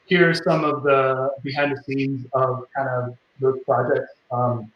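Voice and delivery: muffled, as if far from the mic. Real, not acted. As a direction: speak a little muffled, mic too far away. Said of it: "it just sounds like you're a little muffled".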